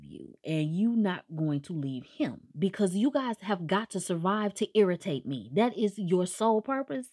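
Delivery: fed-up friend scolding the couple; exasperated scolding. Retold or imitated. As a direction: tell them off like a fed-up friend. Narrator scolds characters mockingly.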